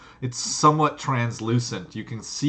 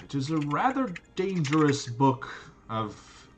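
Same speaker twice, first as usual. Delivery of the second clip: Gorance warning; 5 dB quieter than usual. Acted. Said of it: "Gorance kind of squints at you".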